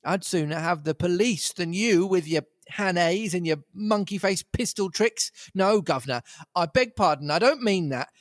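high, furious tramp voice; flying into a rage. Acted. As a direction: rage then back down. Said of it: "I flew into a rage".

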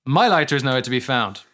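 lightly voiced tech CEO, loud, playful; hint of a keynote presenter, hammed up; Tim Cook impression. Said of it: "I don't know how Tim Cook talks. Is this it?".

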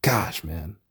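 barely voiced, emotionally spent; whisper. Real, not acted. Vlogger drained after recapping a sad episode, whispering.

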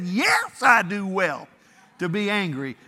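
indignant shouted yes, then insistent; hammed-up furious prophet; mock angry Jonah. Jonah snapping back at God, mock shouting. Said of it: "And Jonah was so mad".

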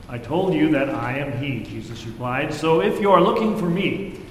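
measured, solemn Bible reading; scripture reading. Acted. Pastor reading John's Gospel to the congregation, solemn. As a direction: read the Gospel aloud to the congregation.

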